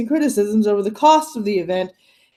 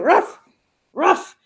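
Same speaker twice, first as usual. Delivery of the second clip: imitating a dog's ruff; 8 semitones higher than usual. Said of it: "all of a sudden you hear".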